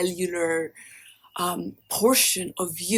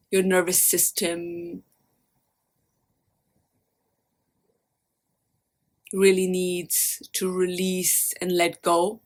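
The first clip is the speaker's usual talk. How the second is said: guided meditation. Acted. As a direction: lead them gently inward, leaving space after each phrase.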